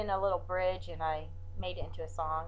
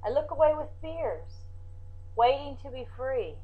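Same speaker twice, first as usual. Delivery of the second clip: poem recital; 3 semitones higher than usual. Acted. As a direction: read it like a poem, with pauses.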